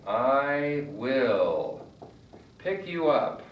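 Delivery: I will, then pick you up, said slowly with a stressed pick; slow careful example. Shown as a demonstration. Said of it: "I will pick you up tomorrow morning".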